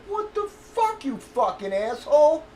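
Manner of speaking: shocked, offended retort thrown back at him; incredulous high yelp of disbelief; indignant outburst. Retold or imitated. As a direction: pitch jumps high on what the fuck. Indignant retort to being slammed.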